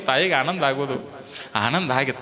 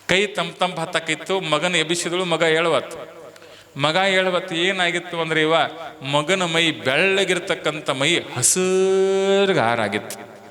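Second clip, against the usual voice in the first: usual speaking voice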